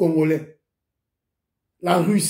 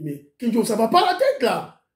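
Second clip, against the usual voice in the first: imitating an annoyed man; 3 semitones higher than usual. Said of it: "il y a un monsieur qui s'est énervé".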